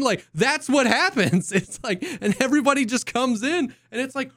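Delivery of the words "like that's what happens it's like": normal talking voice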